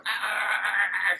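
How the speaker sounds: drawn-out creature "ah"; imitated creature noise. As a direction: make a mock noise from the bushes. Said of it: "we hear some".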